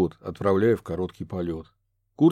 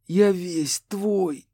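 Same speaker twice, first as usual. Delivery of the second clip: very slow, higher offering; surrender; 9 semitones higher, much slower than usual. A narrator's reading. Kurt offering himself to the ghost, slow high. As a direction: give yourself over.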